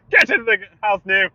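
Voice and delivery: high mock-Irish holler; badly faked Irish, half laughing; terrible Irish accent. Ordering someone into the house, bad Irish accent. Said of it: "that was a terrible Irish accent".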